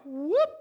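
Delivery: high rising "whoop"; quick upward sound effect for hair standing up; imitated whoop. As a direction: mimic a sudden shiver upward.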